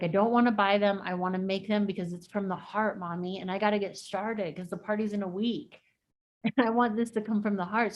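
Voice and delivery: lightly voiced eager little girl, earnest; imitated excited daughter. Daughter telling mother about homemade Valentine cards, lightly imitated excitement. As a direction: retell a child's keen plea, gently animated. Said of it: "she was so excited".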